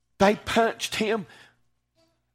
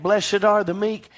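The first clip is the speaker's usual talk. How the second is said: raised, ringing scripture quote; insistent quote; 4 semitones higher, 4 dB louder than usual. Retold or imitated. Preacher tells hearers it meant you, quoting insistently. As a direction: drive the verse home, higher and firmer. Same scripture driven home.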